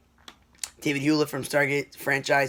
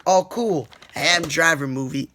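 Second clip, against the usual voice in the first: excited reaction; 6 dB louder than usual. Retold or imitated. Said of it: "I'm like".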